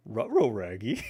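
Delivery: lightly voiced cartoon dog; rounded dog-talk with R sounds up front; Scooby-Doo. Gamer tries a cartoon dog impression, a low-key first go. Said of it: "That was a terrible Scooby-Doo".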